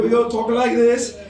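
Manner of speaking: mock British caricature; British accent. Shown as a demonstration. American showing how they fake it, mock British accent. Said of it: "we do a British accent".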